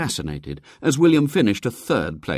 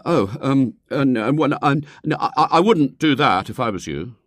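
put-on stammering, higher, flustered boy; aghast schoolboy; 7 semitones higher, 4 dB louder than usual. A narrator's reading. William tries to deter the lady, aghast. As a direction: scramble to put them off. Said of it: "William was aghast".

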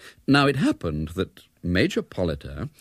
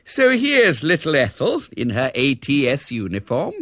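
put-on kindly old man, higher-pitched; 5 semitones higher, 4 dB louder than usual. A narrator's reading. Strange old man greets a supposed little girl, kindly. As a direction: humour a small child kindly. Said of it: "and said kindly".

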